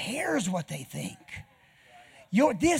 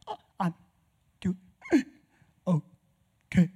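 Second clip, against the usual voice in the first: breathless, gasping mid-word; gasping for breath; slower than usual. Retold or imitated. Recovering patient answers visitors, gasping for air. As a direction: push the words out between gasps. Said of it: "I couldn't talk".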